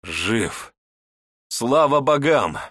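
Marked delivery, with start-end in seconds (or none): 1.5-2.6 loud slow cry of relief. A narrator's reading. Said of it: "вскричал я".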